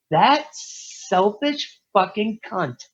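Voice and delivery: high, slow, bitter outburst; retold angry outburst. To his crying dad at the table, bitter outburst. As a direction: spit out the insult slowly, up high.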